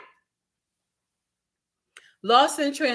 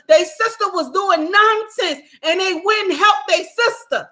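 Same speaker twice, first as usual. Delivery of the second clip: impassioned rant; 4 semitones higher than usual. Real, not acted. Impassioned rant, high and loud.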